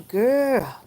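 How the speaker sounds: sassy. Real, not acted. Answering viewer about gum.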